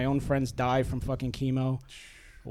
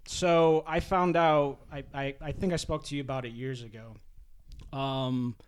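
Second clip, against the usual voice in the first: holding back tears while speaking; choked up. Real, not acted. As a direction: voice catching with emotion. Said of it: "I'm actually fucking getting choked up".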